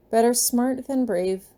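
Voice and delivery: slow, careful dutiful repeat; dutiful child. Acted. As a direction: recite it back like a good kid. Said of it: "Marcus repeats dutifully".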